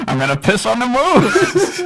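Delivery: squeaky laughing voice. Acted. Voice changer silliness.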